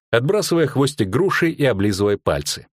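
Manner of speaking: ordinary delivery, nothing marked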